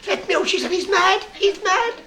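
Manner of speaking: high hammed-up scream of fright at the mad doctor; mock scream. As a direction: panic to get out. Woman fleeing in fright.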